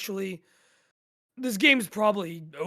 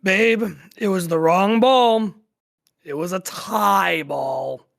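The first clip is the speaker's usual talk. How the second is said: loud frustrated shout into the phone; 11 dB louder than usual. Acted. To his girlfriend on the phone, loud frustrated shout. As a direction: yell the bad news, fed up. Boyfriend yelling bad news on phone.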